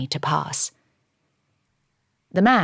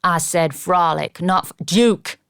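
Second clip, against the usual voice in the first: cheeky protest; 5 dB louder, slower than usual. Acted. Butler defends his cheeky word.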